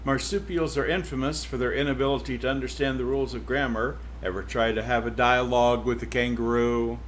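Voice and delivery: lively first-person read as the cow narrator; story narration. Acted. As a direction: tell it as the wry old cow herself. Reads novel aloud as cow.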